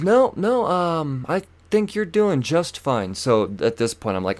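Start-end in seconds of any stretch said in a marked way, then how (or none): 0.0-3.2 high put-on old lady voice. Old lady watches driver dig, high imitated voice. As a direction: mimic her primly, higher and drawn out at the end.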